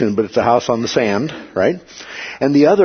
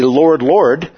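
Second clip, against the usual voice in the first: LORD, LORD doubled with firm emphasis; emphatic address; 4 semitones higher, 4 dB louder than usual. Retold or imitated. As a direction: quote "Lord, Lord" emphatically, a bit higher. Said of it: "say to him emphatically".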